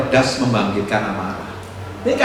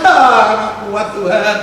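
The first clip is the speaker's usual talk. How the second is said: slow, louder, hammed-up self-pitying wail; mock whining; 4 semitones higher, 4 dB louder, much slower than usual. Preacher mocks a wife crying to God, slow whining. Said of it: "kamu nangis".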